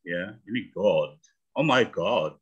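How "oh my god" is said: tag British accent. Shown as a demonstration. British then American take shown.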